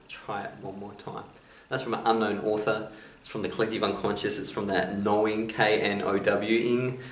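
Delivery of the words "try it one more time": hushed and much softer, nearly gone; soft whisper. Acted. Quote repeated for the audience, hope answering in a hushed whisper. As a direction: let hope whisper it gently. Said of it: "hope whispers".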